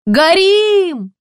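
high, loud desperate yell; frantic scream. A narrator's reading. Villager shouting to the street that houses burn, screaming. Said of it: "истошно заорали с улицы".

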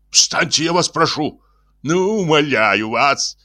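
high, begging voice; flustered high-pitched entreaty; frightened pleading. Acted. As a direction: implore him to get up, stretching the last plea. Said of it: "закричал испуганный инженер".

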